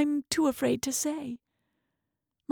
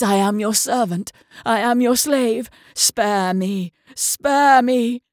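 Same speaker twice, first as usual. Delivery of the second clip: pleading; 3 semitones lower, 4 dB louder than usual. Acted. Doctor begs the god.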